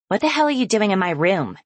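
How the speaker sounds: sharp, irritated snap at her daughter; half-asleep mother snapping at her daughter. Acted. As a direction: bite the words off, woken and annoyed. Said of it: "she snaps".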